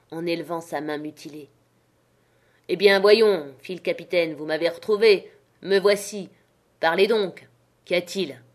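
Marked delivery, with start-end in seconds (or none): 2.7-8.4 gruff captain. Acted. Captain confronts Black Dog.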